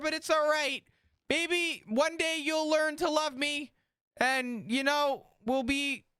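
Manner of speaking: hammed-up heartfelt appeal to a grumpy partner; mock tender. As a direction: lay on the fake sincerity, drawn out. Mock-sentimental speech to Ingvar.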